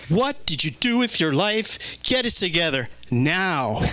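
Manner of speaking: lightly voiced judgy animal asking for standards; a hint of a scolding pet; judgmental pet. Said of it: "an animal that has standards, say like".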